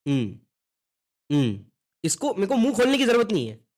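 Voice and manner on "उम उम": "उम" hummed with lips closed, mouth not opening. Shown as a demonstration. Teacher modelling "उम" as a lips-closed hum. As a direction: hum "उम" through shut lips. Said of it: "इसको हम pronounce करते हैं".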